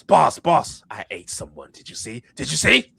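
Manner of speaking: eager report, loud bursts at start and end; excited crewmate. Acted. Crewmate proudly reporting to the boss, excited.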